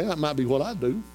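usual speaking voice

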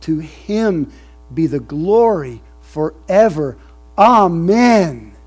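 slow, rising preached reading; scripture doxology. Acted. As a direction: proclaim it, building to amen. Reads doxology.

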